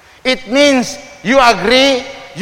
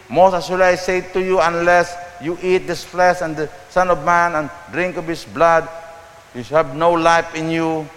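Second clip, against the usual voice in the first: scripture reading; 3 semitones lower than usual. Acted. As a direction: read the gospel solemnly to the congregation.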